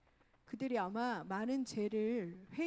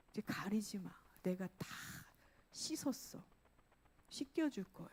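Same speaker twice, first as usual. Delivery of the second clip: hushed, dropping to a near whisper; gentle reassurance; 3 semitones lower, 5 dB quieter than usual. Acted. God promising cleansing to the sinner, hushed reassurance. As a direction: reassure softly, as if confiding.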